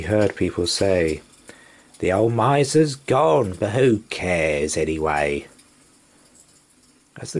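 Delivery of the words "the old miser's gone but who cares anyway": gossiping townsfolk. Acted. Townspeople gossip about dead Scrooge.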